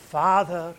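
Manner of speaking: loud, anguished-prayer cry to Father. Retold or imitated. Preacher voicing Jesus praying to his Father, crying out. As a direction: call out loudly as in desperate prayer. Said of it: "He cries out".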